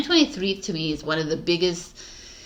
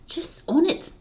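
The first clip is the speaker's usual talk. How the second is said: voiceless whisper, pitched up; whispered urging; 10 semitones higher than usual. Real, not acted. Urging viewers to own their path, whispered. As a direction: breathe it like a secret.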